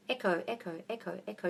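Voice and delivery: soft, fading repeats of ECHO; imitated echo. Shown as a demonstration. Coach showing the world is an echo, fading echo imitation. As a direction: repeat it softly like a dying echo. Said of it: "It is literally an echo".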